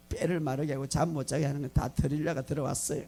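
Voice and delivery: ordinary talk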